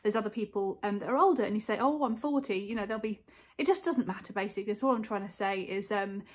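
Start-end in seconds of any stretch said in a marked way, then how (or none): 1.8-2.6 mild mock moan, slightly higher; lightly acted self-pity; imitated moan. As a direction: complain playfully about your age. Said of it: "when people moan".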